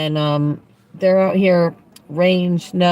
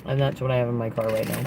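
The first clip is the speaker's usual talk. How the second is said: mouth full; 3 semitones lower, 4 dB quieter, faster than usual. Real, not acted. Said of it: "I'm munching on some Cheez-Its".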